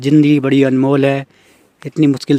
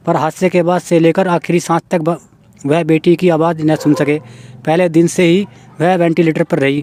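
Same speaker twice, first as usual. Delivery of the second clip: measured reading aloud of a news article; news report reading; 3 semitones higher than usual. Acted. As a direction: read the report out evenly, phrase by phrase. (समाचार पढ़ने का लहजा)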